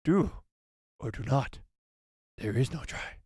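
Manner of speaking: second try at the little master; lightly voiced Yoda again; Yoda impression. Shown as a demonstration. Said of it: "let me try one more time".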